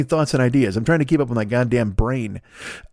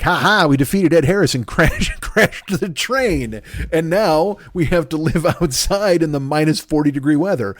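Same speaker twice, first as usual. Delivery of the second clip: laughing mock triumph; 3 semitones higher than usual. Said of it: "They're like".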